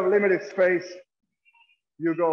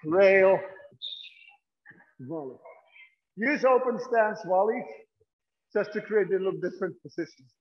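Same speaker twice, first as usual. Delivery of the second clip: out of breath. Real, not acted. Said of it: "I'm out, out of breath".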